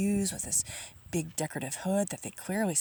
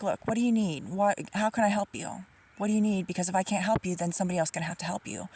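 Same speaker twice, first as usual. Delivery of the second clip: mock nasty teller. Retelling the bank teller cutting her off, mildly impatient. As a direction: brush him off with mock impatience. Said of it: "she was being very nasty".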